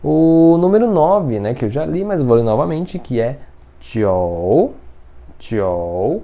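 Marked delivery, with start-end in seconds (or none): 3.8-4.7 "jiu" as "tchiou", low dip then rise; low, drawn-out "jiu" sounding like "tchiou"; O in the middle. Shown as a demonstration. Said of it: "como se tivesse um O aí mesmo". 5.4-6.2 "jiu" as "tchiou", low dip then rise; low, drawn-out "jiu" sounding like "tchiou"; O in the middle. Shown as a demonstration. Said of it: "como se tivesse um O aí mesmo".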